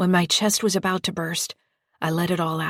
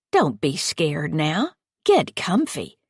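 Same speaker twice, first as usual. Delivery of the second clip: slow, sugary false comfort; slow creepy coaxing; slower than usual. Acted. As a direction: drawl it out sweetly. Patty lures the child.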